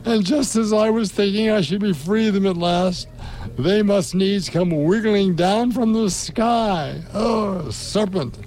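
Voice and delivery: a frantic bird shrieking its complaint; shrieking pigeon. A narrator's reading. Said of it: "raising its voice to a shriek".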